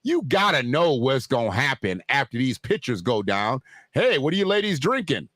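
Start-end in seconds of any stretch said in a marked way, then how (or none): 3.9-5.3 mock rich older man hailing women; lightly voiced old white man with deep pockets; pitched-up chatting-up line, hammed a little. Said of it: "That was my old white man with deep pockets voice".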